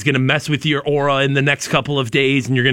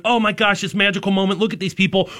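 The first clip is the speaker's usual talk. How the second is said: mildly gushing mock happiness; happy wonder; 2 semitones higher than usual. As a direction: lightly act out being moved by joy. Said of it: "like, the happiness of".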